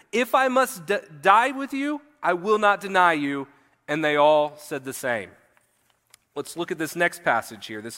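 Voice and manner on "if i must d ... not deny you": mildly emphatic, raised pitch at the start. A narrator's reading. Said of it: "he said emphatically".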